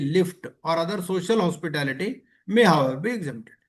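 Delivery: reading the rule word by word, very slowly; slow regulation reading. Acted. Teacher reading gift rules to class, slow and deliberate. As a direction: dictate the regulation so students can follow.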